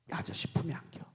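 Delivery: put-on soft hushed whisper to a crying child; a hushed, comforting whisper to the boy; tender whisper. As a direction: whisper it gently, like pulling a child close. Hugging a crying orphan boy.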